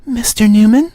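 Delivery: high, breathy-free Eastern European woman's voice; a caller with an Eastern European accent asks his name. Acted. Caller from LH Simulations asks for Mister Newman, Eastern European accent. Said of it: "very sexy female voice in an Eastern European accent".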